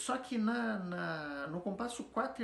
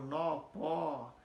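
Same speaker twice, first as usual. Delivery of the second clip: "nó" and "pó" each held as one strong syllable; final stress. Shown as a demonstration. Teacher giving oxytone examples, stressed "nó" and "pó". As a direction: lean on the vowel of "nó" and "pó". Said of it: "a força dela tá na última sílaba".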